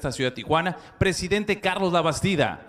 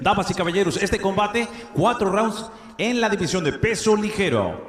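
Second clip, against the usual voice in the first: ring announcer; 2 semitones higher than usual. Acted. Ring announcer introducing the bout.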